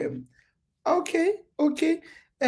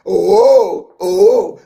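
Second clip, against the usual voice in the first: laughing; 10 dB louder than usual. Real, not acted. Laughing at a misread comment.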